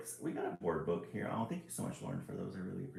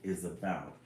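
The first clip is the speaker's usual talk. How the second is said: storyteller announcement; slower than usual. Acted. Character calling friends to story time, grand. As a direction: invite everyone in grandly.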